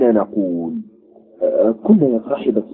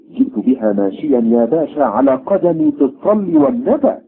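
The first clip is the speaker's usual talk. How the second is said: higher, pleading poor man's complaint; a worn-out peasant pleading his case; aggrieved corn vendor; 3 semitones higher than usual. Acted.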